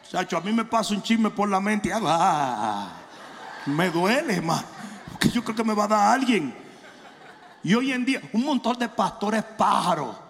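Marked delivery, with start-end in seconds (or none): 2.1-6.5 lower, pained mock whine about a gossip; mock gossip craving. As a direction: ham up a man dying to gossip. Pastor mocks gossip-hungry man. (burla de un hombre ansioso por chismear, quejándose)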